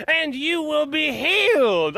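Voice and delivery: slow, high, booming preacher proclamation; faith healer. Retold or imitated. Mocking the crowd as a faith healer, booming. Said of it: "some faith healer".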